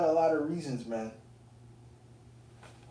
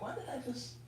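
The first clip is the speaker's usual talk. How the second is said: mock regretful disbelief; 13 semitones higher, 6 dB quieter than usual. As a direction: whine it in high mock regret. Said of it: "I was like".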